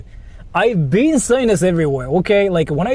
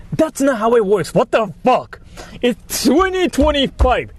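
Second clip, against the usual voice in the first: exasperated; 7 semitones higher than usual. Real, not acted. Exasperated rant about stream advice.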